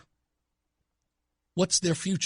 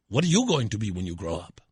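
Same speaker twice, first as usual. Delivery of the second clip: imitated Hispanic accent, lower pitch; thick Hispanic accent; 6 semitones lower, faster than usual. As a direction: ask it in a mock Hispanic accent. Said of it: "In his thick Hispanic accent".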